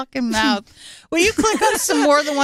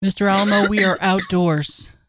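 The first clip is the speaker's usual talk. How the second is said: stern guard voice; 8 semitones lower than usual. Retold or imitated. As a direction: patiently correct the prisoner. Guard voice, lower, slow.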